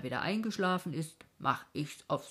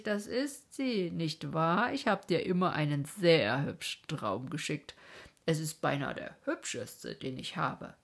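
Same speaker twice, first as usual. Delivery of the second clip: boasting of his best dream; proud dream king; 4 dB louder than usual. Acted.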